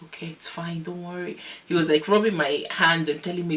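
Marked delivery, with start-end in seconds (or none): 0.0-1.4 softly voiced soothing husband; hushed, mild comforting; imitated reassurance. Husband soothing her during labor.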